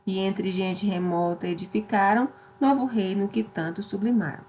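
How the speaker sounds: steady declaimed verse reading; poem recitation. Acted. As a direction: read Camões with epic cadence. Teacher reads Os Lusíadas stanza.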